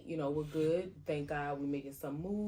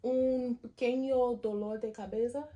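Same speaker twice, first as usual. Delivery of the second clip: higher, playful Spanish phrase; Spanish aside; 7 semitones higher, 4 dB louder than usual. Real, not acted. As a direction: slip into Spanish for "un pequeño dolor de cabeza". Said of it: "A headache?".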